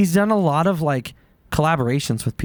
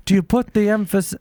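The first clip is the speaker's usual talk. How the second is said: Christopher Walken impression attempt; 5 semitones higher than usual. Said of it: "I'm gonna try to do Christopher Walken".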